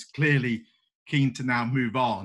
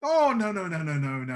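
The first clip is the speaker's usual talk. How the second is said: high, louder burst of no no no; emphatic no; 5 semitones higher, 4 dB louder than usual. Acted. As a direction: brush the idea away eagerly. Oksana dismissing the symphony.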